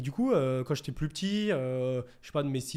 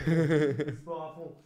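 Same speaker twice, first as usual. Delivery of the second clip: slow, loud emphatic echo; drawn-out hype; 4 dB louder, much slower than usual. Acted. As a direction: stretch every word, pumped up. Hyped topic echo.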